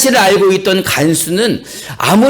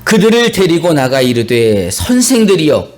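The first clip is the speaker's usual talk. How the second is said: slow, measured Bible reading; scripture reading; 3 semitones lower than usual. A narrator's reading. Pastor reads the verse to the congregation, slow formal reading. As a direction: read the verse out slowly and formally.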